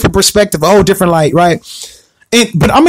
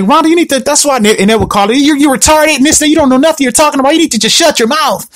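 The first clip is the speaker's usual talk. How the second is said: mock yelling; 6 semitones higher than usual. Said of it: "they would always yell at her".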